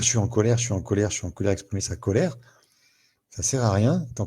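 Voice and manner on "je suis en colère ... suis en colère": declaring anger, fading from loud to plain; saying one is angry. Shown as a demonstration. Coach showing someone saying they are angry, fading. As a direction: say I'm angry, each time less loud.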